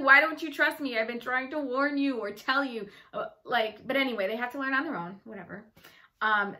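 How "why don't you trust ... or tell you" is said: frustrated plea. Retold or imitated. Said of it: "because you feel like".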